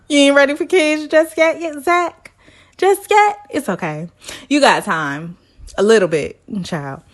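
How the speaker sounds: high, laughing "Just yet?"; teasing through laughter. Real, not acted. Teasing Zach about not wanting kids, laughing. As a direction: tease him while cracking up.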